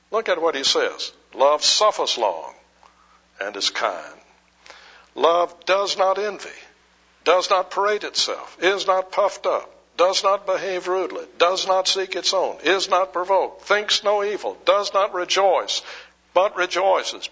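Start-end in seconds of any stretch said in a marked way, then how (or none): 5.1-15.8 each not lifted higher and punched; raised, insistent scripture list; stress on not. Real, not acted. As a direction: hit every not in the list.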